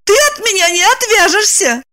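high insistent woman's voice; eager insistence. A narrator's reading. Lipochka insisting she'll follow Roman.

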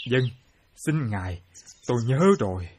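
low, soft apology; hushed, meek. Acted. Mortal chided by the god for talking, meekly hushed. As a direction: back down quietly and submissively.

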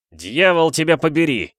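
loud cursing, high pitch; swearing curse. Acted. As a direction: spit out the curse. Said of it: "выругался".

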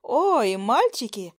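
high, slow sugary mockery; mocking. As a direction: tease them in a high, dragged-out voice. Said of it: "Продолжала глумиться моя".

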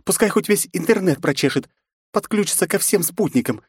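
put-on fierce young princess, rising; defiant young woman. A narrator's reading. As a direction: spit out her anger at the intruder. Nastya defends her family.

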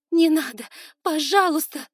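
loud high terrified plea; begging. Acted. Captive girl begging the lord, high terrified plea. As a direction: cry out for mercy. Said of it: "взмолилась".

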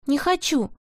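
loud clear refusal. Acted. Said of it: "сказал Павлик громко и отчётливо".

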